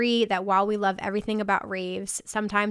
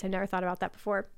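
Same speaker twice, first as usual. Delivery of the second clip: talking through a burp; words broken by a small burp; 5 dB quieter, faster than usual. Real, not acted. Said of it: "Sorry, I'm burping".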